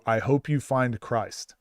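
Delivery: slow, mocking pious quote; mock condescension. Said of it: "the most condescending speech".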